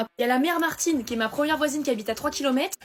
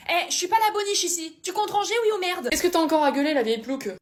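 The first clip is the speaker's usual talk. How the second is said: higher, irritated scolding; annoyed nagging; 5 semitones higher than usual. Acted. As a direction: nag him hard about cleaning up. Dispute de couple. (reproche agacé au conjoint, voix plus aiguë)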